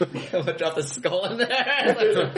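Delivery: laughing. Real, not acted. Laughing mid-game.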